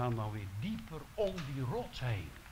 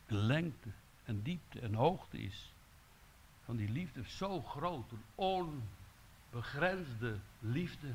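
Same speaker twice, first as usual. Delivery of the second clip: hushed awe; 3 dB quieter, slower than usual. Acted. Softening on the vastness of love.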